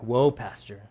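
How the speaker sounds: mock startled listener. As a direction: play a listener caught off guard. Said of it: "You're like".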